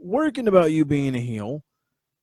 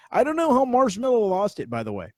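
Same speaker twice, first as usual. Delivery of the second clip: baffled; 7 semitones higher, 4 dB louder than usual. Real, not acted. Baffled aside.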